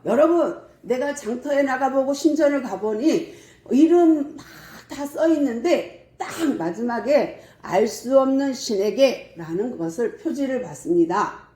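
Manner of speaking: re-enacted public speech, lively and emphatic; Paul. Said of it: "제가 조금 재현을 하면".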